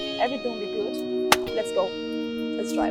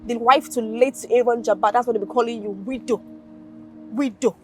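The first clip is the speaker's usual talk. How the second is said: mock taunt; 7 dB louder than usual. Taunting her with what people will say.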